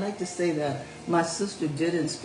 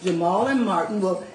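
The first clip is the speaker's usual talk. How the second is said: proper tone; 5 semitones higher than usual. Acted. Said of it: "in that proper tone that parents hate".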